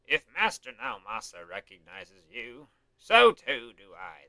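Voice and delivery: lightly voiced old man; slow, elderly lord speaking. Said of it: "old man voice".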